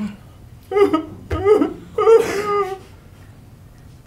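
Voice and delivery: high-pitched imitated child's wailing; mock sobbing. Man re-enacting his childhood crying over the car, high mock sobs. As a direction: wail in bursts like a little kid. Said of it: "I started crying".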